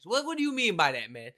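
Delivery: high, loud mock confrontation; loud and obnoxious. Demonstrating causing a scene at a questioner, loud and obnoxious. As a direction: get loud, acting out a public scene. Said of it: "I'm getting loud and I'm being obnoxious".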